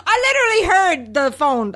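ordinary delivery

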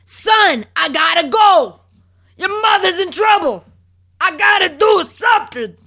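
high, loud, shouted plea to his son; imitating a shout. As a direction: belt it out like a frantic father. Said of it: "they scream at each other".

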